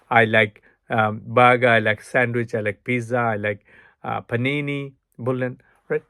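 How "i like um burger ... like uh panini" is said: unhurried model sentences listing foods; example sentences. Shown as a demonstration. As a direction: demo drill of easy I like sentences. (উদাহরণ বাক্য)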